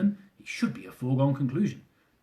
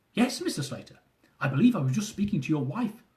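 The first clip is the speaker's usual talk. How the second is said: put-on thick Indian accent. Officer urging the husband to stay on, Indian accent. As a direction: urge him not to hang up, Indian accent. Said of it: "with a thick Indian accent".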